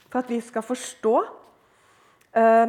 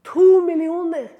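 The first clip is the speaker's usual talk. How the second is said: loud, raised, ringing repeat; emphatic repeat; 6 semitones higher, 10 dB louder than usual. Real, not acted. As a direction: hit TO hard and high, sustain millioner. Repeats the figure for impact.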